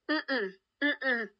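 soft mock-divine no; God saying no. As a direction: shake your head through the hum. God refusing Saul.

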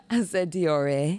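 "Diore" said slowly as dee-or-ay, each syllable clear; slow correction. Shown as a demonstration. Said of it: "that's not what I said".

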